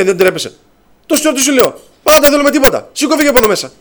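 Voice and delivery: imitated high-pitched scolding outburst; angry shouting. Patient ordering the brother to get out, angry shouting. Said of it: "Να φωνάζει άλλη μέσα".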